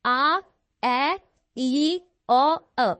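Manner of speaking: each vowel called out separately; vowels listed again. Shown as a demonstration. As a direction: count off the vowels one at a time. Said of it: "five vowel sounds". (स्वरों को एक-एक करके अलग बोलना)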